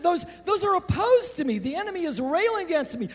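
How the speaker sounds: preacher lets David plead, then lift it to a cry; voicing David. Preacher voicing David in prayer, pleading. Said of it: "Do you hear him saying it?".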